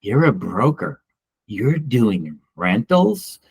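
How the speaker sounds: imitating a disdainful question, mildly done; mock disgust. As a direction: let a touch of scorn creep into the question. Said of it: "almost with disgust in her voice".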